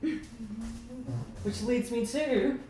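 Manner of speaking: rally everyone to dance; host hyping the dance-off party, building to a shout. Real, not acted.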